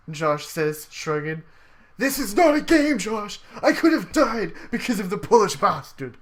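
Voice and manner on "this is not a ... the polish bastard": a touch of read-aloud fury; angry outburst. Acted. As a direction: snap at Josh, fed up. Character shouts at shrugging leader.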